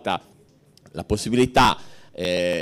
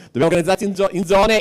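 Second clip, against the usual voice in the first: higher, amused mock of the order; laughing retelling of an old slogan, pitched up; mock repeat of Paolo; 9 semitones higher, 3 dB louder, faster than usual. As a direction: echo the line up high, poking fun. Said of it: "e ci disse".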